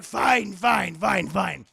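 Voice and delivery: loud, grudging fine, fading to the last one; mock exasperated shout. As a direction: give in with a shout. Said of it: "He's like".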